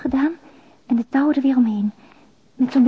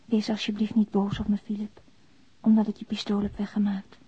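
pleading softly; 3 semitones lower, 7 dB quieter than usual. Acted. Confession letter read aloud.

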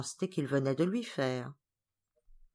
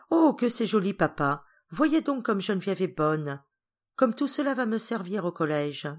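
pleased surprise; 2 semitones higher than usual. Acted. Georges showing his father the gift, pleasantly surprised. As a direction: exclaim with a touch of childlike delight. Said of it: "avec autant de plaisir que de surprise".

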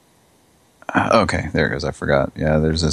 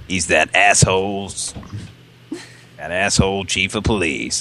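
gruff cop voice. Pretend. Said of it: "I'm gonna be talking like this all night now".

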